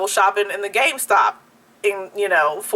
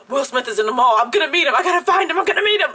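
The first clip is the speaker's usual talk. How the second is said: climbing higher, more frantic with each line; frantic phone call; 4 semitones higher, faster than usual. Retold or imitated. Calling friends about Will Smith, frantic and rising. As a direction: rattle it off, getting more worked up. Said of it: "I'm, like, frantic on the phone".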